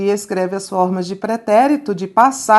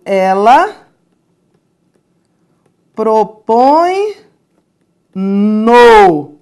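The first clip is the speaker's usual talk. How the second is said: Ela, propõe, no said with long pauses, no louder; spaced out, pauses; 4 dB louder, much slower than usual. Shown as a demonstration. Teacher builds the answer word by word for the class. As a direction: pause between each word. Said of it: "Ela propõe o acordo".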